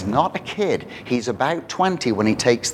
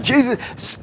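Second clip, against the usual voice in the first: higher, louder pleading cry; shouting beggar; 5 semitones higher, 5 dB louder than usual. Retold or imitated. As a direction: call out to Jesus from the roadside. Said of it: "he starts shouting".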